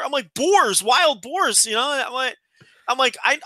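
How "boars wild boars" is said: slow, high, drawn-out disbelief; incredulous echo. Retold or imitated. Friend hearing of boar packs on the property, incredulous. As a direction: repeat it back as if unbelievable.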